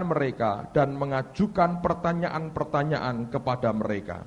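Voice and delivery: measured scripture reading; pembacaan Alkitab. Real, not acted. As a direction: read the verse out to a congregation. Reads a Bible passage aloud. (membaca ayat dengan khidmat)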